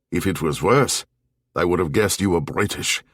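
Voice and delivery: lightly voiced German barman; a hint of German accent, teasing the foreigner; lightly accented German bartender.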